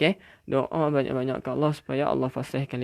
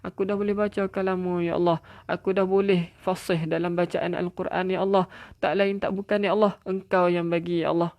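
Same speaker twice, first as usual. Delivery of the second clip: tearful prayer; 4 semitones higher than usual. Pretend. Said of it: "biar dia menangis-nangis".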